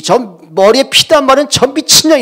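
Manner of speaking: 높고 크게 악쓰는 엄마 흉내; 분통 터진 엄마의 욕설 고함. Retold or imitated. 엄마가 딸에게 욕하며 소리침. (문 닫은 딸에게 악쓰는 엄마)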